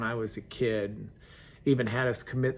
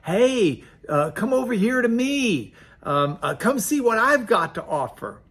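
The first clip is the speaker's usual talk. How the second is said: higher, louder beckoning call; woman calling men in from her door, higher and louder; 9 semitones higher, 7 dB louder than usual. Acted. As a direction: shout to passersby from the doorway. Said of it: "she'll call out to them".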